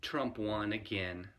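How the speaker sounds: slow, mildly concerned mother voice; concerned mom. Retold or imitated. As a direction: lightly imitate a worried mom breaking news slowly. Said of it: "in her concerned voice".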